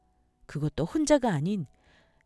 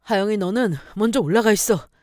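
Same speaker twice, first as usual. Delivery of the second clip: raised, commanding voice; loud, insistent instruction; firm order; 3 semitones higher, 8 dB louder than usual. Acted. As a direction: send someone away urgently. Husband orders mistress upstairs.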